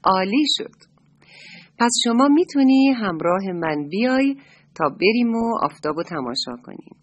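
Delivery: happy. Acted. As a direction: brighten up and invite him along. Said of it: "با خوشحالی دمش رو تکون داد و گفت".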